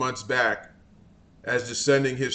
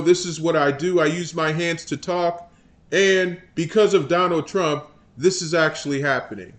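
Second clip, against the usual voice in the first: mock Jeffries. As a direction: ham up a blustering politician. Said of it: "That's how he sounds".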